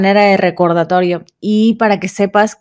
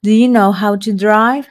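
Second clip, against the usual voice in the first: slow model question. Shown as a demonstration. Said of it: "Y un ejemplo".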